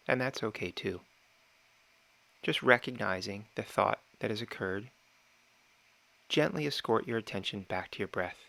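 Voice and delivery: calm, measured meditation guide with long pauses; unhurried meditation instruction, phrase by phrase; guided meditation. Real, not acted. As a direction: gently talk them through it, pausing between phrases.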